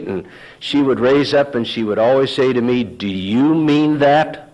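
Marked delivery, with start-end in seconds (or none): 2.8-4.5 slow, pointed retort; indignant challenge. Retold or imitated. Wife challenging her husband's sarcasm, mildly indignant. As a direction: imitate an affronted wife, drawing it out. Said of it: "her shoulders would get straight".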